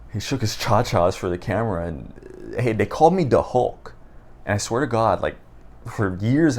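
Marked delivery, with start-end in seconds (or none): 2.6-3.9 higher-pitched imitation of a friend's accent; Mikey. Retelling a friend's video-chat boast, imitated accent. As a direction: mimic his accent, "the" turned to "duh". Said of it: "saying things in his accent".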